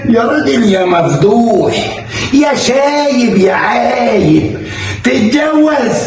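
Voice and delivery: laughing scorn at her husband; mocking laugh. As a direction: jeer through laughter. Wife mocking husband's remarriage.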